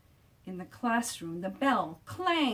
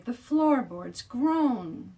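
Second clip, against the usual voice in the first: drawn out and loud; loud, slow; 4 semitones higher, 7 dB louder, much slower than usual. A narrator's reading. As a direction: act out the groan. Sound words acted out.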